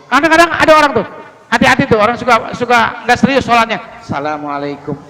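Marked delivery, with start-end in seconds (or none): 4.0-5.0 "Assalamualaikum" mumbled as salamualaikum, alif lam dropped; wrong salam. Shown as a demonstration. Preacher showing the careless worshipper's quiet, clipped salam. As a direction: swallow the opening "Assalamualaikum" syllable, soft and careless. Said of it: "Itu nggak pakai alif lam loh".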